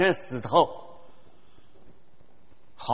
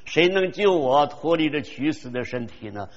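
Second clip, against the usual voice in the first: anguished cry. Retold or imitated. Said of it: "保罗说：".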